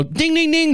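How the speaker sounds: sing-song ding-ding; mock closing bell. Joker imitating the bell at day's closing, chiming. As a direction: chime it out like a bell.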